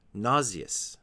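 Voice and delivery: "Nauseous" as NAH-zee-us, with a z; alternative pronunciation. Shown as a demonstration. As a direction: swap the sh in "Nauseous" for z-ee. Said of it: "pronounce this word a little bit differently".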